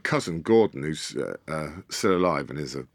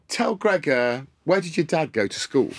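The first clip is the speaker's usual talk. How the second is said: gleeful question; 6 semitones higher than usual. Retold or imitated. Dad springs the question.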